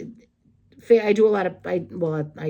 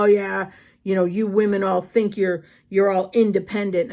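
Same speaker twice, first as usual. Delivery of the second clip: mildly raised mock yell; retold near-yell; 4 dB louder than usual. Date telling her women all think they're independent, imitated near-yell. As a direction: imitate him getting loud, short of shouting. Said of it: "he starts almost yelling at me".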